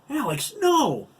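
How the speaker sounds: high, loud alarmed shout; hollering. A narrator's reading. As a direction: holler to stop your husband. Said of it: "Susan hollered".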